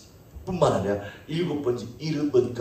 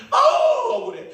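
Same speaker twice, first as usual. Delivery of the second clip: mock wail; 6 dB louder than usual. Acting out own frustration.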